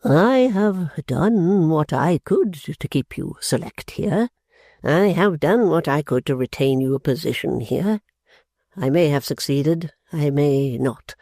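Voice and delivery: put-on slow, wounded old man; the father lamenting to his daughters; grieving father. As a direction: plead his dignity with hurt. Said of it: "fit of grief".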